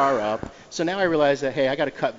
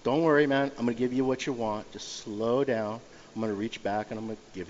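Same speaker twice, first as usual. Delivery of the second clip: calming; 2 semitones lower than usual. Retold or imitated. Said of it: "talking down a mugger".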